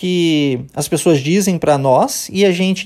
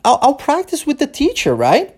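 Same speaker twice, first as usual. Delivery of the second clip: a student checking, higher, with a rising "right?"; student asking; 7 semitones higher than usual. Retold or imitated. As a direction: play the student seeking confirmation. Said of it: "o aluno questiona o seguinte". (aluno perguntando, com voz um pouco mais aguda)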